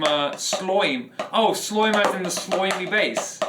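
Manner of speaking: slime stretched into a goofy sloim; mock accent, lightly done; a silly voice, played for laughs; funny voice. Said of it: "I said it in the funny voice".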